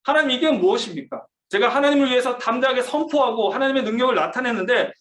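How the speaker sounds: 하나님께 절규하듯, 절제된 목소리로; anguished outcry. Retold or imitated. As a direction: plead with God in despair, held back. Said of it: "막 절규하면서 하나님 앞에".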